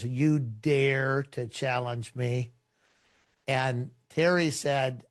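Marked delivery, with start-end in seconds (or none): 0.0-2.5 slow, menacing dragon voice, only lightly put on; a hint of a threatening beast, drawn out slowly; mild retold monster voice, slow and looming; deep ugly voice. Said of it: "deep, ugly voice".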